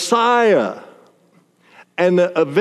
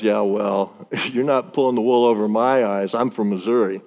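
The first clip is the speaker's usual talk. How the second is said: skeptical drawl; 6 semitones lower than usual. Pretend. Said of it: "No, he didn't say that".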